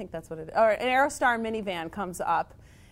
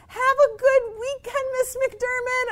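put-on high, sing-song child's goodbye; cheerful little girl; 6 dB louder than usual. Student waving goodbye to her teacher, high cheery child voice. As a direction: chirp it like an oblivious kid. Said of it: "the girl's like".

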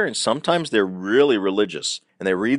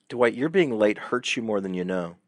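calm and matter-of-fact. Retold or imitated. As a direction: say it plainly, without heat. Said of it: "It wasn't mean. It wasn't loud".

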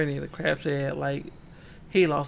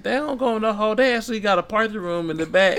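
high, laughing through a mock woman's line; laughing quote; 5 semitones higher, 5 dB louder, faster than usual. Retelling her line to co-hosts, laughing.

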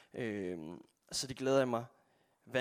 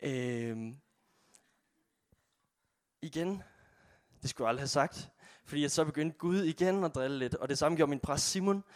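ordinary talk, nothing marked

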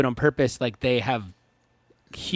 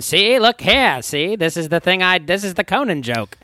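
Conan impression; 4 semitones higher than usual. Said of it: "Half of his jokes are him going".

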